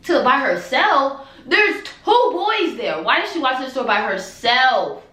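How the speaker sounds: high, slow shocked questions. Retold or imitated. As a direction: drag the words out in disbelief. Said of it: "like, in shock".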